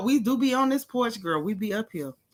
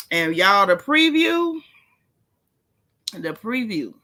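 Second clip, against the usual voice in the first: dramatic emphasis; 4 dB louder, slower than usual. Real, not acted. Building gossip drama.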